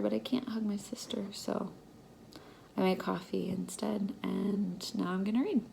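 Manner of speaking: soft unvoiced whisper. Real, not acted. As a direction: whisper it so nobody wakes. Whispering after waking.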